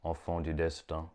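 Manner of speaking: measured recital, pausing between phrases; poetry reading. Acted. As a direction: read it as short mystical verse. Reads short poem aloud.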